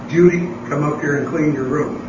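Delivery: mild mock call to a daughter; calling upstairs. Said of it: "yelled downstairs".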